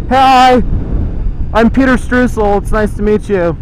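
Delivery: high, bright showman hello; cheesy celebrity greeting. Pretend. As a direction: greet fans like a local star. Mock celebrity greeting to onlookers.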